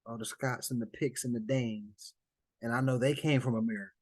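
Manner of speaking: imitating a believer listing his roots; mock Moorish claimant. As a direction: play someone proudly tracing roots. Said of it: "and they're saying".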